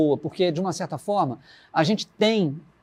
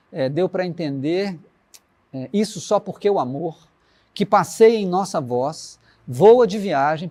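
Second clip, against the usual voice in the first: recitação pausada e lenta; letra recitada; slower than usual. Acted. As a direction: dizer a letra como poema, sem pressa. (declamando devagar, com pausas)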